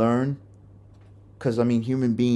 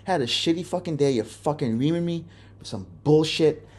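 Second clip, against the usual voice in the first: exasperated plea; 4 semitones higher than usual. Retold or imitated. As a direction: plead at a higher pitch for the yelling to stop. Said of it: "And I'm like".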